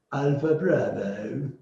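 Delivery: Alpha, bravo said slowly and relished; slow florid alpha bravo. Shown as a demonstration. Teacher savouring the British Alpha, bravo. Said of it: "how beautiful it is".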